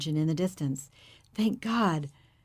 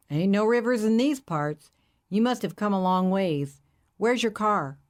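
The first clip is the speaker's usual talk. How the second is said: hippie driver. Acted. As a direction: play the friendly hippie, curious.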